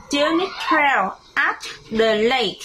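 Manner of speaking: model for repeating. Shown as a demonstration. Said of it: "One more time".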